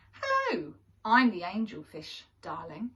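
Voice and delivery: a hint of a preening diva, lightly voiced; vain angelfish. Angelfish introduces herself to the children, lightly preening. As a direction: flutter through it like a vain beauty. Angelfish speaks in first person.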